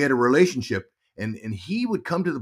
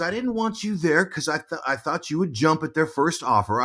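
higher-pitched imitation of mom; explaining mom; 6 semitones higher than usual. Mom explaining to son, lightly voiced, higher. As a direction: lightly voice a mother justifying herself. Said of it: "She goes".

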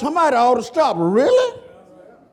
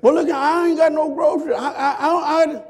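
fast, high, laughing excuse; mock excuse; 7 semitones higher than usual. Preacher voices a broke man's lame excuse, fast and laughing.

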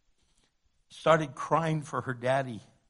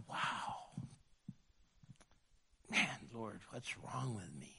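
much softer, inward prayer; quiet self-reproach; 6 semitones lower, 12 dB quieter than usual. Retold or imitated. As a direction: murmur it in humbled surprise. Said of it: "You start going".

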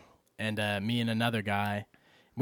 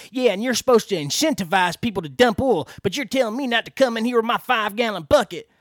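mock whiny customer; 10 semitones higher, 7 dB louder than usual. Mocking the customer's whining complaint.

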